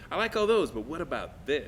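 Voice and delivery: retold tactful pushback, starting high and dropping; polite counter-offer. Actor answering the director's song choices, politely countering. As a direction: accept brightly, then slip in your own idea.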